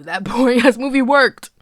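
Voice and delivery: laughing. Real, not acted. Laughs at own joke.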